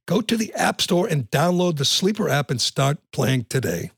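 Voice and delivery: lively podcast sponsor read. Acted. Host pitching a fantasy sports app to listeners, ad read.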